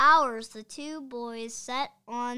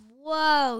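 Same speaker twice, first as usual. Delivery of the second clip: loud, higher whoa; boy amazed at the full file cabinet; surprised cry; 5 semitones higher, 12 dB louder than usual. A narrator's reading. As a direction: gasp it out in amazement. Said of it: "he cried".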